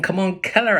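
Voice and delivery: high, loud excited call; calling the puppy. Acted. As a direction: whip the puppy into a chase.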